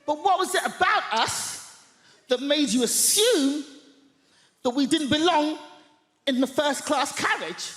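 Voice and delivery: humiliate her with sweetness; a comic calling out a passenger in a posh voice; loud sarcastic politeness. Retold or imitated. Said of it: "at the top of my voice, I say".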